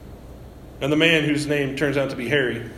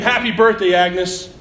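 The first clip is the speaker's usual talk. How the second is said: mock crowd shout, higher and louder; retold party shout, pitched up; 3 semitones higher, 4 dB louder, slower than usual. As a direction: call out the surprise to Agnes. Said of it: "They all shout and scream".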